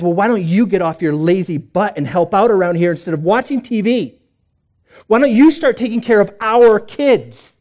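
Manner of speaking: mock quarrel, wife snapping back; angry wife. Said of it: "She says".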